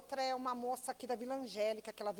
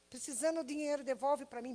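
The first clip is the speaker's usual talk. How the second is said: mock crying little girl; 3 semitones higher than usual.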